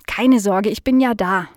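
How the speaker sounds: light, mild reassurance; reassuring. Acted. Dog to the worried fly, mildly reassuring. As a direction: soothe a worried friend simply. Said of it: "beruhigte Nala Nasebraun die Fliege".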